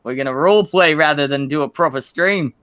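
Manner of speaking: bad British accent sliding into Australian; put-on British voice actor, accidentally Aussie; botched British accent. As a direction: attempt British, come out Australian. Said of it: "supposed to be a British accent".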